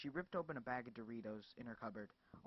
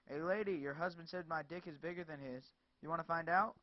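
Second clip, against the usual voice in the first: jeering thug; 4 semitones higher, 6 dB louder than usual. Acted. Thug taunting her.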